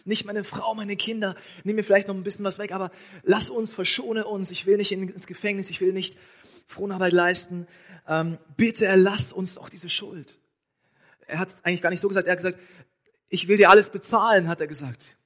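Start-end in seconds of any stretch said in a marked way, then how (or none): 0.0-10.4 a hint of a pleading servant, higher; begging debtor. Debtor begs the king not to jail his family, mild pleading. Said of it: "der Mann bettelt". 13.3-14.5 loud promise. Acted. Debtor promises king loudly.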